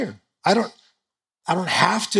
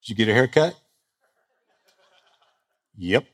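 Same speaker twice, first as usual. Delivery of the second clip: terse guys; 5 semitones lower than usual. Retold or imitated. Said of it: "this is how guys talk".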